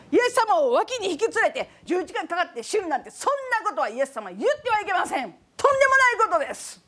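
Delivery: a hint of Peter telling Jesus off; Peter scolding. Peter rebuking Jesus, mildly acted indignation. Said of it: "怒りました。".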